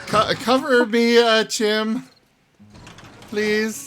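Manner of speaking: high, loud urgent call; cover me shout. Real, not acted. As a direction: yell for backup, pleading. Urgent call for help in game.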